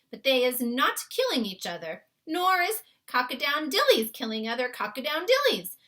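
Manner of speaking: put-on a kindly giant explaining his world to a girl; BFG voice. A narrator's reading. BFG's lines in story.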